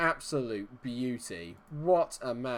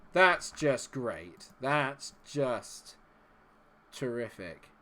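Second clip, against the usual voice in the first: slow, dry sarcasm; deadpan sarcastic gloom; much slower than usual. Real, not acted. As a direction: drag out the fake praise. Sarcastic reaction to a miss.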